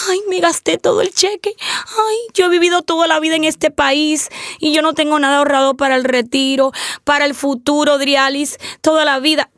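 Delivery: lightly put-on whiny lament; mock whining caller. Host mimicking a client who saved nothing, mock whine. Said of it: "no nos podemos quedar llorando".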